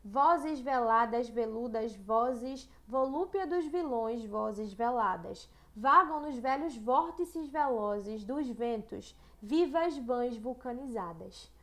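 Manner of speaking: slow, deliberate poetry reading; poem recital. Shown as a demonstration. Teacher recites a Cruz e Souza poem to the class, slowly. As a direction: savour every v as you recite. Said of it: "Coloquei aqui também um outro poema".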